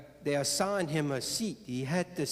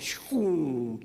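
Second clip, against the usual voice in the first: whooshing "shoo" that falls away; mimicked getaway whoosh; imitated speeding-off whoosh. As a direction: whoosh like a car tearing off.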